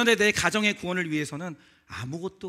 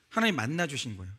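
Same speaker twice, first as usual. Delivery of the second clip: ordinary talk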